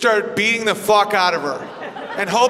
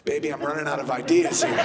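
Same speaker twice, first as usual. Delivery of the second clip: defeated husband; 7 semitones lower, 5 dB quieter than usual. Retold or imitated. Husband giving up in bed, sheepish and low. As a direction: lower and softer, a sheepish admission. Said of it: "You're like".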